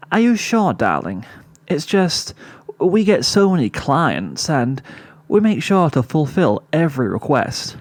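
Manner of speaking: a hint of a posh fashionista fussing; a lightly played fancy older sister, coaxing; Rarity's voice. Rarity's voice, read aloud.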